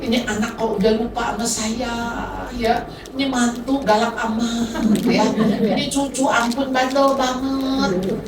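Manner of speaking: mild mock whine of a self-pitying grandmother; self-pitying complaint. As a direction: lightly grumble like someone feeling sorry for herself. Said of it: "lagi mengasihani diri".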